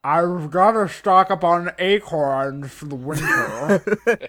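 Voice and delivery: slow, stuffed-cheek squirrel voice. Pretend. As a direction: chipmunk cheeks full of acorns.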